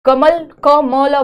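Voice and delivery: कमल, then क, म, ल each drawn out separately; slow, loud breakdown of कमल; sounding out letters. Shown as a demonstration. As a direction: spell कमल aloud sound by sound. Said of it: "ध्वनि कैसे बनाते हैं".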